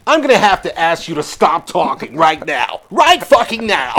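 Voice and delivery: loosely imitated North American accent. Co-host ordering someone to stop talking, rough American accent. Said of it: "What the fuck was that kind of American accent".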